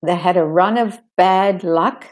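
"run" and "bad luck" stressed, "of" reduced; stressed phrase. Shown as a demonstration. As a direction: link "run of" smoothly.

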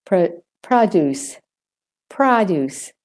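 "produce" in American, "prah-doos"; American "doo" in "produce", no y sound; American accent. Shown as a demonstration. Teacher models for learners, American "produce". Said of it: "in the American accent".

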